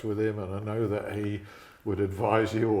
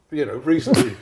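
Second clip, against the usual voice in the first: chuckling through it; a teasing laugh; 4 semitones higher, 12 dB louder than usual. Real, not acted. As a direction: laugh the word out, amused. Teasing understatement about fairness.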